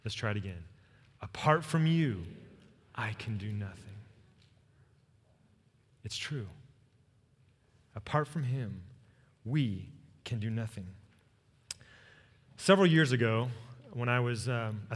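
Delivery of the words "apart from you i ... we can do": from the heart. Shown as a demonstration. Pastor asks the church to say it to Jesus, sincerely. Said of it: "from your heart".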